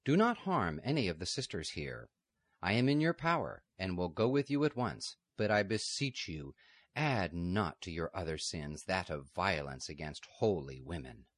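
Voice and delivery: beseech them with calm dignity. Acted. Margaret giving herself up to the outlaws, calm and dignified. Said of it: "she said calmly".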